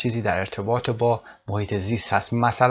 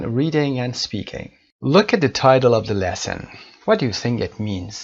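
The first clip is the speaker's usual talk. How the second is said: 1 slow textbook reading; much slower than usual. Shown as a demonstration. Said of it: "teacher reads the textbook aloud slowly".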